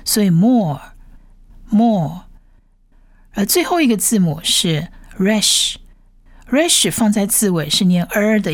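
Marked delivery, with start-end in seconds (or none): 0.3-2.2 "more" with a long drawn-out O. Shown as a demonstration. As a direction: stretch the vowel in "more", slowly. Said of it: "长母音是O". (长母音O，慢读“more”)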